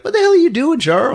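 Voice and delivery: high, loud challenge; mock outraged yell. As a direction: call him out with hammed-up alarm. Acted confrontation.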